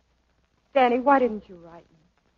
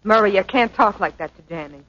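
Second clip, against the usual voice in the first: upset protest; 5 dB louder than usual. Acted. Peggy protests Murray's insult.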